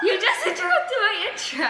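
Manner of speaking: laughing through the words; half-laughed complaint. Real, not acted. Sister interrupts the intro.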